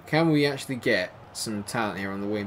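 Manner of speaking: ordinary delivery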